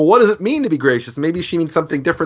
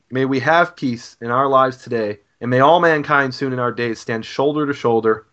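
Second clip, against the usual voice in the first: steady, earnest prayer read aloud; spoken prayer. Acted. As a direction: pray it over the listeners, measured and sincere.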